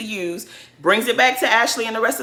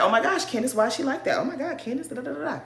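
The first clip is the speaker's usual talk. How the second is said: mocking the ladies; 5 semitones higher, 5 dB quieter, faster than usual. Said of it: "everyone else was just like".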